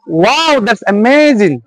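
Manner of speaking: WOW and AMAZING each swoop up, then fall; rise-fall intonation. Shown as a demonstration. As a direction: let the voice climb and drop on "amazing". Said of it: "examples of rising intonation". (উঠানামা সুরে বলা)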